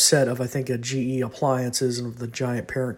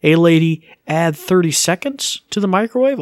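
voice command; 4 semitones higher, 7 dB louder than usual. Shown as a demonstration.

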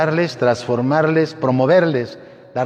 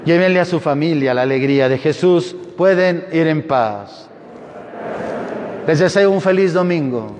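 raised, intoned liturgy; cathedral echo; 5 semitones higher than usual. Acted. Priest intoning closing rites.

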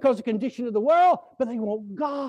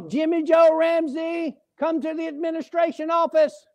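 calling out a name; 6 semitones higher than usual. Retold or imitated. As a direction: call him across the prison yard. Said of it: "I heard him call".

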